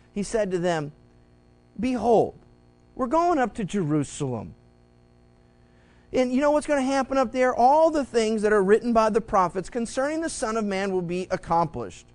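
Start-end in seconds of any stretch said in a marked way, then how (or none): 1.8-12.1 loud, urgent announcement; Jesus warning his disciples loudly; Jesus announcing. Retold or imitated. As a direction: tell the twelve with mounting urgency. Jesus voiced telling disciples.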